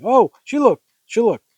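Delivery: high, loud, startled outburst; overdramatic exclamation. Acted. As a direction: gasp it out with melodrama. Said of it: "You can't say it like that".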